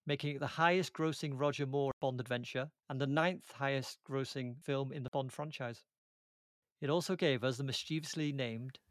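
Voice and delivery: measured podcast host narration; tidy scripted delivery, phrase by phrase; scripted presenter read. Acted. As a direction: read the film facts like a prepared intro. Reads scripted intro and film facts.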